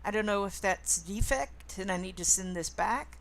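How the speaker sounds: loud, close to the microphone; close mic. Shown as a demonstration. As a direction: lean into the mic. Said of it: "Does that sound better?".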